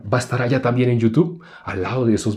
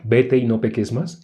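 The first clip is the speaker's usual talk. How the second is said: Vete y no peques más said slower and gentle; Jesus' way; slower than usual. Retold or imitated. Preacher contrasting Jesus' calm version with the Pharisee's. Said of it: "Pero Jesús le dijo".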